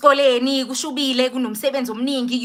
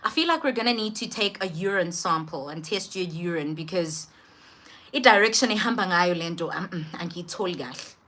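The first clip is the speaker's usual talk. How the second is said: low, soft doctor voice; pondering doctor; 4 semitones lower, 5 dB quieter than usual. Retold or imitated. Doctor suggests a urine test, low pondering delivery. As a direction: muse quietly as the doctor. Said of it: "And he's like".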